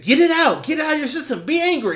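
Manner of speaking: urging encouragement. Retold or imitated. Tanya urging Frank.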